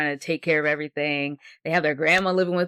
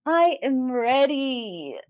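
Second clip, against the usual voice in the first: put-on old speech synthesizer; 8 semitones higher, much slower than usual. Robotic podcast intro reply.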